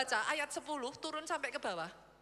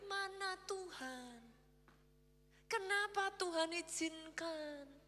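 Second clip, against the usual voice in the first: mock lament; 7 dB quieter, slower than usual. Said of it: "kayak saudara ngomong kayak gini loh".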